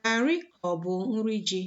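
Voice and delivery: brisk, run-together question; quick model read. Shown as a demonstration. Teacher modelling the question for learners, brisk and quick. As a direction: rattle off the question at natural speed. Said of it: "to help you pronounce after me".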